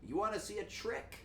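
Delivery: put-on high, slow sweet old grandpa. Grandpa greeting his grandson with a magic trick. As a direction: croon it like a doting old grandpa. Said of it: "and he's like".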